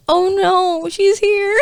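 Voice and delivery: mock panic. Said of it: "I was like".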